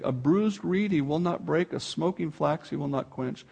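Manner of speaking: "A bruised reed he will not break" said softly and tenderly; gentle, soft reading. Acted. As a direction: read it softly, like the gentleness described. Quiet rereading of the verse.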